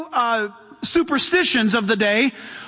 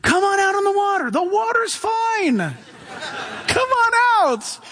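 Jesus calling out; 7 semitones higher than usual. Retold or imitated. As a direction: beckon him out, big and welcoming. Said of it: "he'll say something crazy like".

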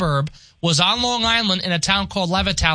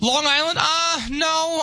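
surprised; 10 semitones higher, slower than usual. Real, not acted. Newsman hears "all rural.

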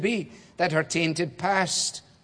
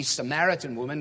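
Samaritan leaned on, rising; stress on Samaritan. Shown as a demonstration. Preacher stressing Samaritan to his congregation. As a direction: press on the word Samaritan. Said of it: "Samaritan is important".

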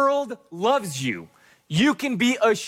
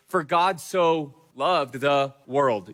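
reverent scripture quote; 3 semitones lower, much slower than usual. Acted. Quoting famous scripture slowly.

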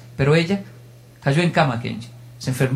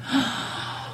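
sharp breathless gasp; 8 semitones higher, 9 dB quieter than usual. Retold or imitated. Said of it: "Tomó aire".

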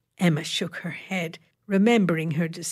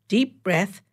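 brisk; 2 semitones higher, 3 dB louder than usual. Acted. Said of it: "she instructed briskly".

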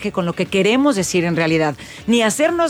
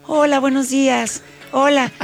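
higher, sweeter put-on greeting; 4 semitones higher than usual. Guest imitates her softened childhood phone greeting, higher. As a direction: sound nice to please. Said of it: "empecé a modificar mi voz".

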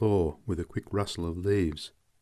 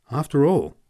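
unsteady; 7 semitones higher, 8 dB louder than usual. Acted.

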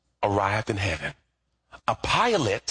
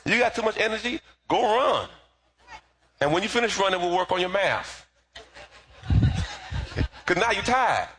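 mother's voice; 9 semitones higher than usual. Retold or imitated. Mother voiced in story, laughing.

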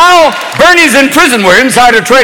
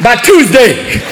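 desperate junkie plea; 4 semitones higher than usual. Pretend. Banks voiced as junkies begging for cash, pleading. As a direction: beg like a junkie needing a fix. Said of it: "like a group of junkies".

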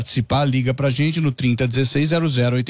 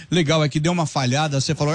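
ordinary talk

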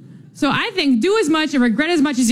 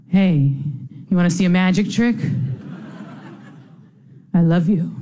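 mock ex-boyfriend; 6 semitones lower than usual. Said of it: "had just begun the relationship".

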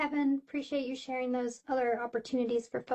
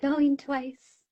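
auctioneer call; 4 dB louder, much slower than usual. Pretend. Mock auction call closing comments.

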